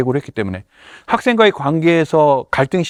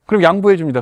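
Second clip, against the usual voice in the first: usual speaking voice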